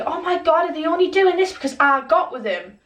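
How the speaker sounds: mock a dramatic "oh my God" outburst. Friend's outburst acted in story.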